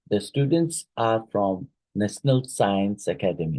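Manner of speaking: statement tune dropping on "Academy"; falling intonation. Shown as a demonstration. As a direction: let "Academy" fall to close the sentence. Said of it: "ends with a falling intonation".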